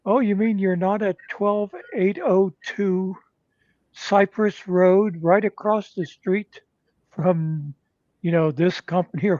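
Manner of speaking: mock-innocent gotcha question; sly mock innocence. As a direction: spell out the address slowly, teasing. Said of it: "he'd be like".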